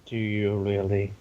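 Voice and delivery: low, soft menacing villain; quiet sinister taunt; evil voice. Acted. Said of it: "he's doing his evil voice".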